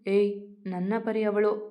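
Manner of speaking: ordinary delivery, nothing marked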